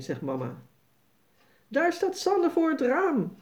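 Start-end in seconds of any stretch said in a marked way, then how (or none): 1.7-3.4 cheering. A narrator's reading. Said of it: "zegt Jasper juichend".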